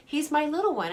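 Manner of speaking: amused, affectionate chuckle; laughing. Real, not acted. Laughing about her tall son.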